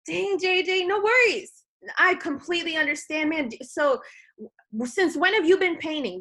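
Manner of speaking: upbeat, high reassuring brush-off of the worry. Acted. Rep reassuring busy prospect J J, upbeat and reassuring. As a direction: put him at ease right away, bright and friendly. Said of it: "Always make sure you're relatable".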